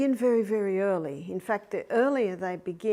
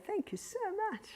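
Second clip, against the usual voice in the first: high, soft, sweet thanks; tender thanks; 11 semitones higher, 9 dB quieter, faster than usual. Shown as a demonstration. Grandmother thanking grandsons for the foot massage, high and soft. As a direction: coo the thanks to the little one. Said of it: "we'd say".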